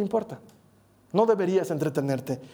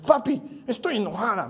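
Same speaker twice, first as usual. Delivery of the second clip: upset daughter. Retold or imitated. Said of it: "sale enojada y dice".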